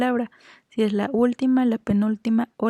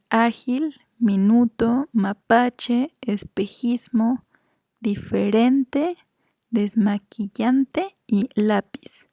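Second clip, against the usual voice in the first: slow word list, leaning on the next-to-last syllable, as in "minuto" on NU; teacher's slow list, "mapache" stressed on PA, "diferente" on REN; penultimate-syllable stress; much slower than usual. Shown as a demonstration. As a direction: draw out each word from "ágil" to "lápiz", stressing its penultimate syllable. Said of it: "Graves serían".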